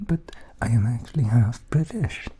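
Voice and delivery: slipping into a Welsh lilt; Welsh accent. Shown as a demonstration. Half-British speaker explaining himself to viewers, drifting into Welsh accent. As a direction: let a touch of Welsh accent creep in. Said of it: "I'm turning into Welsh".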